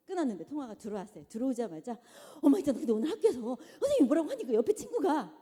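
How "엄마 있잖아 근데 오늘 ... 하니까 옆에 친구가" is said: put-on loud, excited kid rushing the story; a child bursting in from school; a kid spilling news to mom, loud and fast; eager child.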